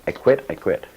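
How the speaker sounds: mild retold outburst, rising; angry quitting outburst. Disciple storms at his guru, mildly retold angry outburst. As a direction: blurt out that you quit. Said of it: "finally I got so angry I stood up and I said".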